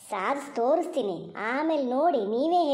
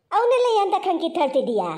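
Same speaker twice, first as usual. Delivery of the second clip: sharp, raised angry question; angry retort; 3 semitones higher, 4 dB louder than usual. Acted. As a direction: snap at her in irritation. Husband snaps during quarrel. (ಜಗಳದಲ್ಲಿ ಹೆಂಡತಿಗೆ ಸಿಟ್ಟಿನಿಂದ ಜೋರಾಗಿ)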